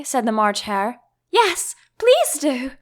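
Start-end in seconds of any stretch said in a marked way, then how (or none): 1.3-2.7 slow, higher pleading; earnest, slowed-down plea. A narrator's reading. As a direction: beg them nicely, drawn out. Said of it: "pleaded Alice".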